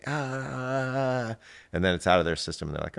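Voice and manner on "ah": high, sustained "aah" imitating a fighting child; mock struggling wail. Showing how contained kids fight it out, mock wail. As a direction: let out a long, restrained mock wail. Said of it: "They'll do this fight".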